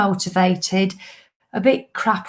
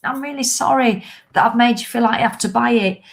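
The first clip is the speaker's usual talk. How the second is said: higher, lightly put-on sorry voice; a hint of the nagging inner critic, higher; mock apologetic inner voice; 3 semitones higher than usual. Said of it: "I've got that bitch voice saying".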